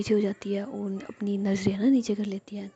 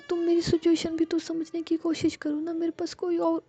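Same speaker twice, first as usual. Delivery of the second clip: high, understated tearful plea; Ruhi, tearful pleading; 6 semitones higher than usual. A narrator's reading. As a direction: beg to be understood, drawing out the last pleas. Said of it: "देखती है रूही रो रही है". (हल्के रुआँसे, ऊँचे सुर में मिन्नत)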